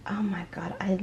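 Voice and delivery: breathless whispered oh my God; awed whisper. Real, not acted. To her viewers, stunned, in a whisper. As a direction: whisper it in disbelief. Overwhelmed while unboxing.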